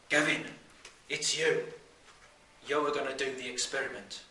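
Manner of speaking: loud, emphatic announcement in separated bursts; single out the pupil loudly, pausing after each phrase; Mister Proctor. Acted. Teacher picks pupil for the experiment, loud emphatic announcement.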